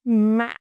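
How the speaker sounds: "mã" with a catch mid-vowel, then up; "mã" in the broken ngã tone; broken rising tone. Shown as a demonstration. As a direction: break "mã" in the middle and rise. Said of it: "is a broken raising tone".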